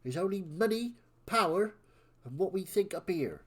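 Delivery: grand West Country villain. Acted. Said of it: "doing a villain voice in West Country".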